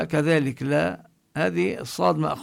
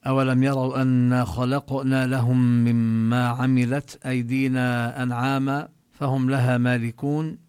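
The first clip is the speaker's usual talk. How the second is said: Quranic recitation; 2 semitones lower than usual. Shown as a demonstration. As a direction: chant the verse with tajweed. Recites Surah Yasin verses.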